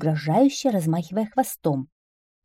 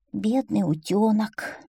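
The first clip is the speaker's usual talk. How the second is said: slow, pitying lament; sighing frog; 3 semitones higher, slower than usual. Acted. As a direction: sigh with pity, drawing it out. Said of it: "вздохнула лягушка". (сочувственный вздох лягушки, протяжно)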